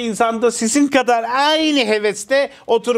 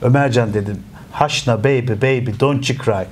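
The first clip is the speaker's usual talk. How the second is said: mock consoling; 10 semitones lower than usual. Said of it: "Çok böyle duygusal bir yerimde dedim ki".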